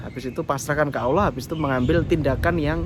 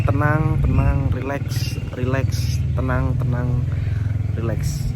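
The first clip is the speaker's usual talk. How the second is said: calming self-talk; 3 semitones lower, much slower than usual. Shown as a demonstration. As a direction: talk yourself down gently. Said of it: "Anda bilang di dalam hati".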